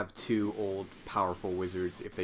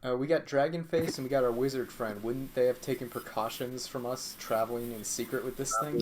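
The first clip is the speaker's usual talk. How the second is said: boomy, muffled mic sound; 3 semitones higher than usual. Real, not acted. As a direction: mouth right against the mic. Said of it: "your, your mic sounds muffled then".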